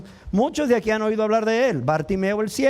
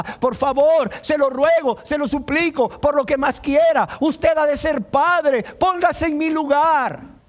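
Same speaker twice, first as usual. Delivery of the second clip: crying out in supplication; pleading mother; 5 semitones higher than usual. Acted. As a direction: implore like a desperate mother, pitch held up. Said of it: "como esa madre que clama".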